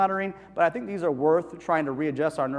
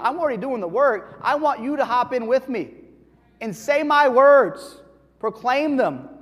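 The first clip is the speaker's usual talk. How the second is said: God's voice; 6 semitones higher, 5 dB louder than usual. Acted. God voiced in sermon, rising.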